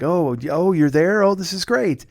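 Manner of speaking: rising, mildly flustered imitation; embarrassed fan. Mom meets her favorite on FaceTime, imitated embarrassment. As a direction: stammer it like a shyly pleased fan. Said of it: "kind of embarrassed too".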